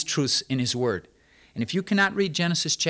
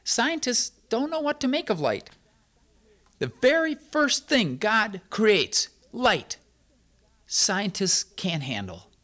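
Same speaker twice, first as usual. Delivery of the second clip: emphatic preaching; 6 semitones higher, slower than usual. Acted. Preacher driving the point home.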